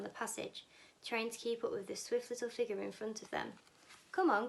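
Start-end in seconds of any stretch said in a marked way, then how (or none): 4.1-4.5 loud call to hurry. Acted. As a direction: call the group along. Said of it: "cried Mister Wonka".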